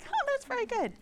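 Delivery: high, laughing, ironic praise; amused mock approval. Reading scripture for children, laughing at herself. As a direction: chirp it out with a laugh. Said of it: "I'm like".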